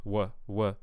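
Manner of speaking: "what" with the clip's vowel, T barely sounded; New York-like vowel. Shown as a demonstration. Coach echoes the vowel they heard, New York-like "what". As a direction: isolate the odd vowel in "what". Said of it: "that vowel quality on the what".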